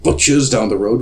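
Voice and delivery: hammed-up old Scrooge; old man voice. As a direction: marvel at the boy like a Dickens character. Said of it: "And then they say".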